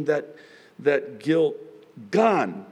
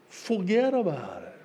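put-on New York accent; 3 semitones higher than usual. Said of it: "New Yorkers say it like this".

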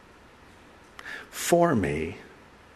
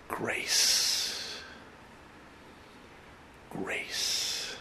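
hushed grace; 10 dB quieter than usual. Real, not acted. Pastor answers despair with grace.

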